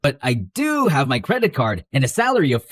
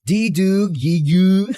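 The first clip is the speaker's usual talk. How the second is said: put-on teasing baby talk; 3 semitones higher, slower than usual. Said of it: "Sounds like a baby trying to talk".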